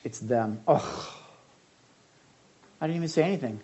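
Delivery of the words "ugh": annoyed groan. Shown as a demonstration. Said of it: "To sigh or to groan".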